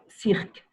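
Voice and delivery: "cirque" said seerk with no U sound; silent U. Shown as a demonstration. Teacher correcting a student, silent U in "cirque". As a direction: model "cirque" clearly, U left silent. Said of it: "C'est muet".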